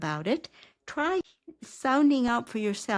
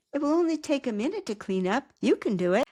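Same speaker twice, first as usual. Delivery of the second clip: higher, encouraging lift; cheerleader voice; 5 semitones higher, faster than usual. Shown as a demonstration. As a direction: cheer your character on. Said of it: "victory and loss are very different voices".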